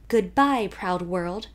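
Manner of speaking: a light touch of grand, slow recital; mildly theatrical farewell; declaimed feelingly. Acted. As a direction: recite it like a poem at the top of the stairs. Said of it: "she declaimed feelingly".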